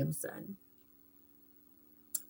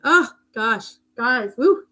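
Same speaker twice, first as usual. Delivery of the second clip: overwhelmed exhale; 7 semitones higher, 10 dB louder, slower than usual. Real, not acted. Overcome while praising her pastor.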